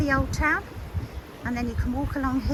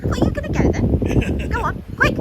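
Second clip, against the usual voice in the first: laughing urging; 12 semitones higher, 7 dB louder than usual. Real, not acted. Laughing, urging partner up steps.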